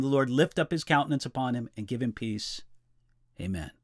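solemn liturgical reading, softening to a hush; hushed graveside prayer. Acted. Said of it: "it says this".

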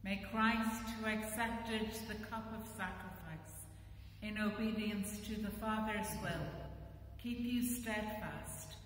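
solemn blessing. Acted. Priest blessing the congregation at the end of the service, solemn and formal. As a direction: pronounce it over the people, lifting toward the middle.

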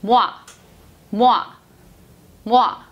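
모아 said as "mwa", each one separate; pronunciation of 모아. Shown as a demonstration. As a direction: repeat 모아 as one syllable with pauses between. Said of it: "복합 문자 모아가 탄생이 돼요". (모아를 '뫄'로 한 번씩 끊어서 발음)

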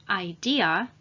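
idea, with an audible "a" at the end; final vowel pronounced. Shown as a demonstration. Teacher models idea for learners, final "a" clearly sounded. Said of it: "we pronounce the "a" at the end".

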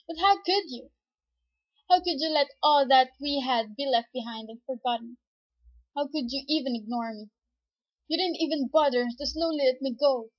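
wounded, accusing outburst; hurt reproach. Acted. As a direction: confront them as a betrayed friend. Hurt character confronts former best friend.

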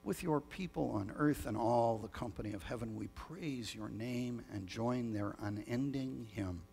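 measured, solemn prayer voice; liturgical prayer. Acted. Leads the Great Thanksgiving prayer.

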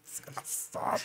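whispered curse; barely audible voiceless insult; inner thought. Retold or imitated. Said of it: "E eu pensando assim".

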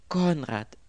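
high, loud plaintive cry; wailing. A narrator's reading. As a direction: wail the name in distress. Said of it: "jammerte das Mädchen".

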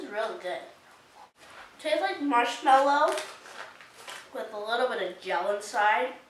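chewing while talking; talking between bites; mouth full of candy. Real, not acted. Seen 2: Puts candy in mouth at 0.2, then jaw works while talking.

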